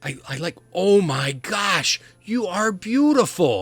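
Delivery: put-on flustered little boy. Boy flustered by a party member, high stammering child voice. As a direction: stumble over words, then swoon. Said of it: "eight-year-old boy".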